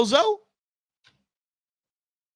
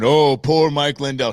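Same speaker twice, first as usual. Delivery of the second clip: louder, mocking sympathy for "poor Mike"; mocking pity; 3 semitones lower, 5 dB louder than usual. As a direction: sneer at the fake pity. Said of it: "I'm ticked at this victimhood".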